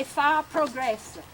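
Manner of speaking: Italian dialect. Retold or imitated. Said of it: "Mom would say".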